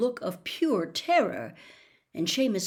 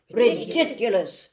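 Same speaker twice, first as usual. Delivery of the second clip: Ridiculous chanted slowly and louder by the whole class; class chorus; 3 semitones higher, 7 dB louder than usual. Acted. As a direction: echo the charm together, louder. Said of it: "said the class together".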